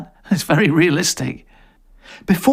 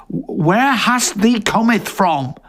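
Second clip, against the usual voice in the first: slow, whispered archaic villager line; slow mock-medieval whisper; 7 semitones higher, much slower than usual. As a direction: breathe it out like a wary peasant. Villager speaks old English.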